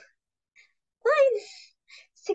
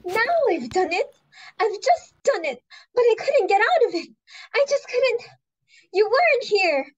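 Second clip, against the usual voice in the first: distressed; 3 semitones higher, 4 dB louder than usual. Acted. Confessing a blunder, distressed.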